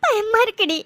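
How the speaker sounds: high tearful plea, sinking at the end; frightened crying. Acted. Mithu tells Vaishu she is scared, frightened crying. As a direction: sob it out to a confidante. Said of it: "அழாதடி".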